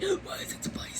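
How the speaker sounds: high, breathless squeak of protest; squeaky complaint. Real, not acted. Sister squeaking about the spicy ginger beer. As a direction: whine it up high.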